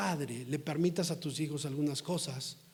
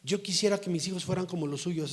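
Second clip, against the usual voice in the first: mock sarcastic; 3 semitones higher than usual. Churchgoer comparing children with the pastor's, imitated sarcasm. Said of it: "Sarcásticamente".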